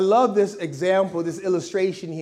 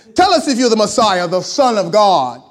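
put-on raised, demanding-sounding English accent; 9 dB louder than usual. Reading the passage aloud, voicing the high priest questioning Jesus in an English accent. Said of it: "why the high priest has an English accent".

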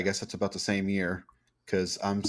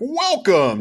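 put-on fancy radio announcer voice, higher and louder; 13 semitones higher, 11 dB louder than usual. Retelling a first podcast intro: imitating own fancy radio voice. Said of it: "trying to make my voice all fancy and stuff like the radio people".

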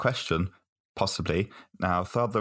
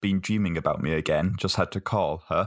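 ordinary talk

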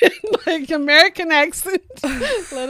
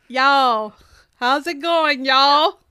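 poorly done, put-on Southern accent. Speaker tries out an accent right after announcing it, Southern accent. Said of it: "Southern accent".

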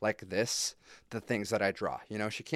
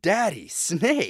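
put-on amazed little child's voice, high and loud; 7 semitones higher, 8 dB louder than usual. Imitating his daughter while coloring, like a surprised child. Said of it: "Like she's surprised every fucking time".

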